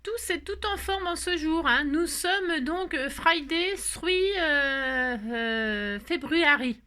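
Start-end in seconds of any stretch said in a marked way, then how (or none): 3.1-6.8 English date in a thick French accent. Real, not acted. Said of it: "mon accent anglais". (anglais avec un fort accent français)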